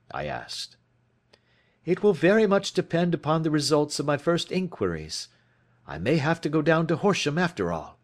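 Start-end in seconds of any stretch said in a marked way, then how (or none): 1.8-8.0 lightly voiced detective, a little higher; Holmes explaining. A narrator's reading. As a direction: lay out the case like a keen detective. Holmes answering Watson.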